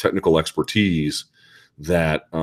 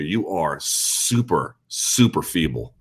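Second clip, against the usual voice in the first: slow mock verdict; 3 dB quieter, much slower than usual. Scene: telling a struggling lady she is feeble, slow deadpan. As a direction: stretch out super feeble like a mock diagnosis. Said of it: "I wanted to be like".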